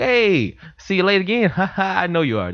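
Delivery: high, chummy white-boss voice; mock white boss with a fake ha ha. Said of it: "that a white boss would do".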